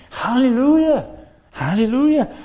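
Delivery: loud, high joyful hallelujah; rejoicing hallelujah. Retold or imitated. Preacher voicing heaven's joyful hallelujah.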